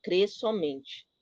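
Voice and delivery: very slow, measured words of the Lord; solemn scripture quote. Acted. Quoting the Lord to Jairo, slow and solemn. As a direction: lay each word down slowly, like scripture. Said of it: "o Senhor disse pra Jairo".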